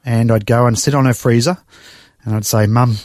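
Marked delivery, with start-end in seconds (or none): 2.7-3.0 choked up. Real, not acted. Son pouring his heart out to Mum, choked up. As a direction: voice catching on "my life", with a sigh before it. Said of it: "still get emotional all these years later".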